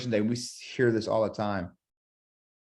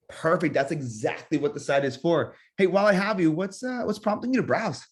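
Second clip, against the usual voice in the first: the filler pause "what's, uh" before "what's prompting", rising high; curious casual hesitation on "what's, uh"; deliberate pause; 4 semitones higher than usual. Shown as a demonstration. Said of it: "I'll say it again so maybe you hear it".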